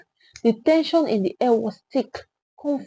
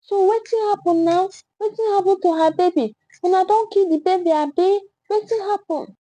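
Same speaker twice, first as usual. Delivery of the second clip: angry Pidgin accusation; 8 semitones higher, faster than usual. A narrator's reading. Accusing crowd member Pidgin.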